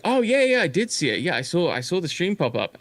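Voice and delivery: a hint of an overeager fan grabbing the bait; eager reply. Eager fan answers chat.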